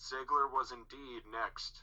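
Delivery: passive, flat, slow, unhurried monotone. Retelling what Michael Cole said on a match right after Goldberg won, passive monotone. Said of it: "in the most like passive monotone".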